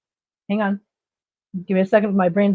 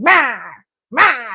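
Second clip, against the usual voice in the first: imitated kitten meow; 2 semitones higher than usual. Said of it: "my son back there just going".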